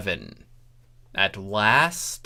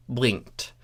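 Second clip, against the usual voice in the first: ordinary delivery, nothing marked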